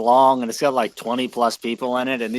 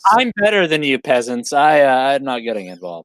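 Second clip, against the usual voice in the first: haughty dismissal, starting louder and falling away; disinterested and superior; 4 dB louder than usual. Shown as a demonstration. Player showing Agron how to act above the peasants, haughty. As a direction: look down on the peasants, then lose interest. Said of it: "completely disinterested and, like".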